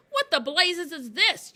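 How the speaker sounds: slow, high, outraged yell. A narrator's reading. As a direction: demand it loudly in outrage. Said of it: "yelled the Trunchbull".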